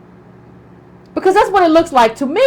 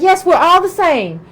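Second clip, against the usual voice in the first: mocking other women; 3 semitones higher than usual. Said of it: "come in and be like".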